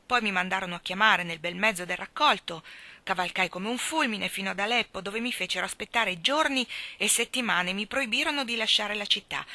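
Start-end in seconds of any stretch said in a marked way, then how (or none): none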